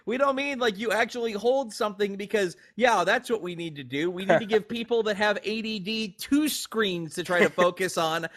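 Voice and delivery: high exasperated mock voice; a flustered marketer correcting his boss; mock marketing exec. Marketing people correcting Miyamoto, high and exasperated. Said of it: "And it's like".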